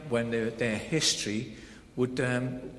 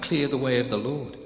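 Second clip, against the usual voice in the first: crying out; 5 dB louder than usual. Shown as a demonstration. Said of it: "a voice crying out".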